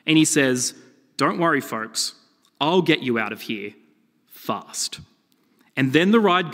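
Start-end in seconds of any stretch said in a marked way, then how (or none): 1.1-5.0 lightly voiced hero reassurance; Superman. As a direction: play the unruffled hero, lightly. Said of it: "the voice of Superman comes over".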